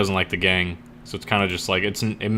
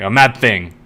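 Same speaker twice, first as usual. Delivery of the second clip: mock outburst; 4 dB louder than usual. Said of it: "then she smacks her hand".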